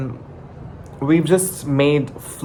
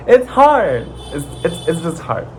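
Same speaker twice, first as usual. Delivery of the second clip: voice breaking; 5 semitones higher than usual. Real, not acted. Emotional about struggles.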